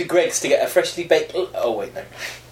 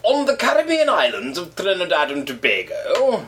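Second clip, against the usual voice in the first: put-on Caribbean accent; 5 semitones higher than usual. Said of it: "in my best Caribbean accent".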